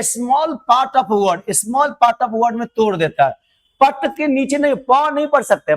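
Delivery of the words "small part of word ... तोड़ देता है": slow dictation. Shown as a demonstration. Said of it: "dictating definition".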